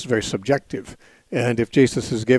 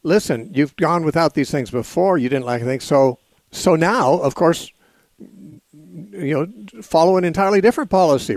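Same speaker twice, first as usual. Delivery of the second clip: imitating light irony, pitched higher; lightly ironic mock instruction; mild sarcasm; 4 semitones higher than usual. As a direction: act out a mildly sarcastic speaker, pitch rising. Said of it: "ironically or in sarcasm".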